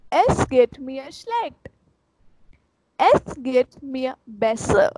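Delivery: slow, careful German phrases; slow review. Shown as a demonstration. Teacher reviewing all phrases for the class, slow. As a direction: go over the phrases slowly. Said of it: "I'm repeating from starting".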